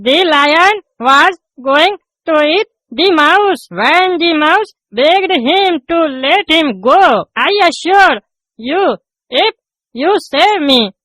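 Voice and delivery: drags out each English word; slow halting reading. Acted. Pupil reading aloud to the teacher, very slow. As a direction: reads word by word like a struggling pupil.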